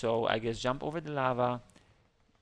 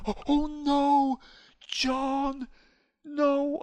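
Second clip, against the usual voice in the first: high, slow oh no; hammed-up distress; mock dismay; 10 semitones higher, 5 dB louder, much slower than usual. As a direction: wail over a fallen teammate. Teammate John dies.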